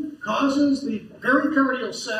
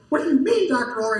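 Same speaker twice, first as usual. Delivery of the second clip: farmer's puzzled question; 3 semitones higher, 4 dB louder than usual. Retold or imitated. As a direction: ask it like a confused farmer. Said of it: "And they go".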